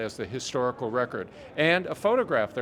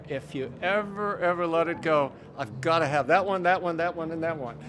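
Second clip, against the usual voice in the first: higher-pitched, imitated eager plea; eager collector; 4 semitones higher than usual. Collector quoting eager admirers of his specimens, imitated eagerness. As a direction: lightly act out a collector wanting every piece.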